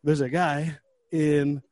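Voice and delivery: slow, laboured mock-winded report; acting too puffed to speak; out of breath. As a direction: drag it out between breaths. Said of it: "how out of breath I was".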